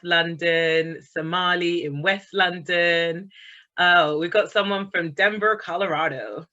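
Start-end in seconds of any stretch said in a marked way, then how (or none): 3.8-6.4 a hint of an American accent, lightly put on; a self-mocking attempt at an American accent; terrible American accent. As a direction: try a quick, bad American accent on the place name. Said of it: "That's my terrible American accent".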